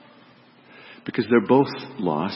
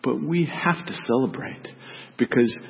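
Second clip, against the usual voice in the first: tender; 5 dB quieter than usual. Acted. Father gently pleads with son.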